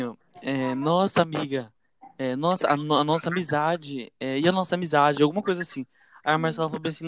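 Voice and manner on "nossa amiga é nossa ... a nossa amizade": mimicking friend. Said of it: "A Bia falou bem assim".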